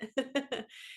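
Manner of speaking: soft laugh, falling. Real, not acted. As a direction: chuckle at the story. Laughing after the cat owners' story.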